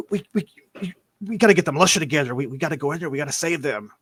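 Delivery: stammered, hurried plea to rally help; frantic villager begging for a rescue party; urgent pleading. Acted. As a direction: stumble over the first words, then rush.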